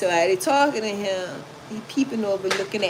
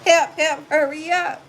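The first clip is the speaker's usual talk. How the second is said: higher, louder frantic call; mock cry for help; 8 semitones higher, 4 dB louder than usual. The man on the phone calling police, high mock panic. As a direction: squeal for help like him. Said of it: "And I heard".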